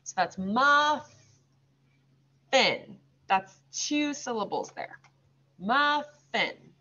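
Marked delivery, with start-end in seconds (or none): 0.4-1.1 muffin with a long break after muf; slow teaching split of "muffin"; broken into syllables. Shown as a demonstration. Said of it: "say it slowly and kind of break it up". 5.6-6.7 "Muffin" as two separate beats; muf, small pause, fin; syllable-by-syllable teaching voice on "Muffin"; slow, broken up. Shown as a demonstration. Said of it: "say it slowly and kind of break it up".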